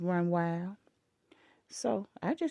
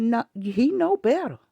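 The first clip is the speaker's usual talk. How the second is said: firm retort; 6 dB louder than usual. Retold or imitated. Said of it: "I said".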